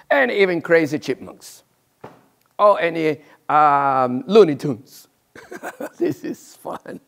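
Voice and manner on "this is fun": laughing. Real, not acted. Laughing at own demo.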